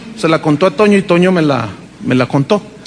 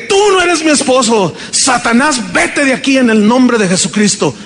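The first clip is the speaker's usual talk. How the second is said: rebuking Satan; 3 semitones higher than usual. Retold or imitated.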